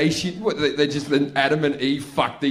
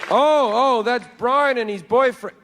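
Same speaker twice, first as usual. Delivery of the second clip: surprise; 6 semitones higher, slower than usual. Acted. God spots the gay couple.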